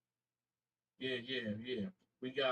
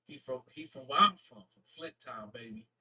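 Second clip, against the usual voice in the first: excited; 2 semitones lower, 4 dB louder than usual. Real, not acted. Streamer excited about a hometown fan.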